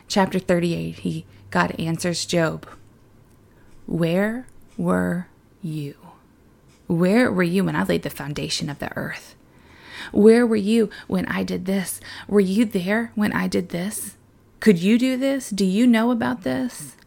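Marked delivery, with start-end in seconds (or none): 3.8-5.9 slow breathless whisper, God's question; awed whisper. Acted. God answers Job, hushed. 6.9-16.9 building challenge. Acted. God answers Job, building.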